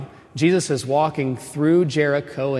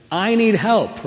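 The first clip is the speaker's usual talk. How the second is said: pleading cry; 8 semitones higher, 4 dB louder, slower than usual. Acted. Voicing the desperate blind man.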